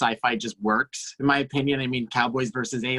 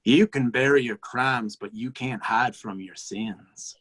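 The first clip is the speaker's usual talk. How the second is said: ominous warning; slower than usual. Acted.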